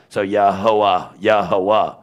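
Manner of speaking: "Yahweh" drawn out slowly, syllable by syllable; sounded letter by letter. Shown as a demonstration. Teacher joining letters into a name, sounded out. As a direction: stretch "Yahweh" into its separate breathy letters. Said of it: "Ya, ha".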